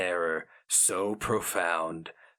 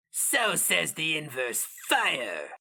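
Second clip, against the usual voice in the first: slow, wet rumbling creature; deep-chested rumble; 8 semitones higher, slower than usual. A narrator's reading. The Inkoroi names the inverse fire, slow wet rumble. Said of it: "A deep-chested rumble, popping mucus".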